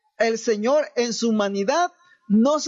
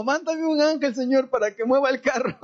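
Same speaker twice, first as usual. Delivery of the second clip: higher mock tearful plea, laughing through it; imitating a crying woman; 5 semitones higher than usual. Preacher imitates the stranded woman praying, mock tearful and higher. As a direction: play her weepy prayer with a laugh. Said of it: "estaba llorando".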